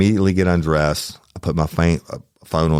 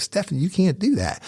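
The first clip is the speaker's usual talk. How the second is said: hushed warning; 14 semitones higher than usual. Retold or imitated. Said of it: "and I was like".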